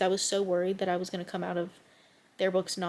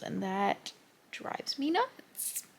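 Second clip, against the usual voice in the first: exasperated; 4 dB quieter, much slower than usual. Real, not acted. Frustrated vent.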